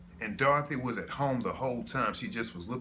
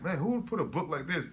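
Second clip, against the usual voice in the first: higher, lightly incredulous question; mock disbelief; 5 semitones higher than usual. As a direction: imitate a baffled onlooker, pitched up. Voices listeners mocking his book.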